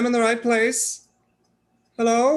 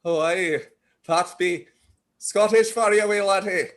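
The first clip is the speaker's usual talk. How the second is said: halting, badly faked Scottish; imitated Scottish accent; 3 semitones lower than usual. Newcomer copying the Scottish classmate, faked Scottish accent. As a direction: parrot a Scot, carefully and slightly low. Echoes the Scot's accent back.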